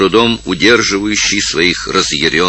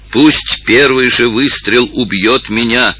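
a slow, lightly raised outcry; cry out; 5 semitones higher, slower than usual. Acted. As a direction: offer himself up with a mild cry. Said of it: "вскрикнул Картина". (Картина вскрикивает, обращаясь к заговорщикам, сдержанно)

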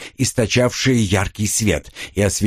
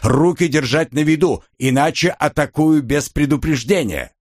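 higher, booming amplified command; booming thunder and wind; 6 semitones higher than usual. Acted. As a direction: thunder the order down the stairs. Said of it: "вновь прогремел голос".

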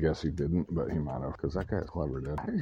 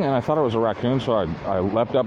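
ordinary talk, nothing marked

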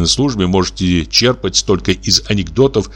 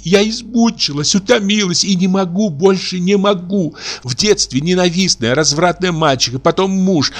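high, tearful outpouring of grievances; рыдающий высокий голос; sobbing; 9 semitones higher than usual. A narrator's reading. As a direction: sob it all out in a high voice. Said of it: "продолжала она, рыдая".

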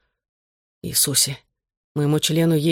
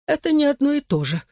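much higher, tearful sob; a mother's voice breaking with tears; sobbing; 11 semitones higher than usual. Acted. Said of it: "всхлипнула она".

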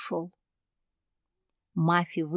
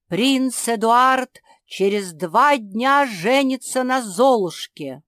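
herald's proclamation; 4 semitones higher, 8 dB louder than usual. A narrator's reading. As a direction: proclaim it to the whole kingdom. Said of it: "Затем Герольд закричал громким голосом".

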